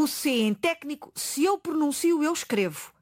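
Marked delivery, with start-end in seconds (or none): 0.5-1.1 técnico with a K sound before the N; C pronounced. Shown as a demonstration. Showing a consonant that is written, C sounded in "técnico". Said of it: "digo o, o C".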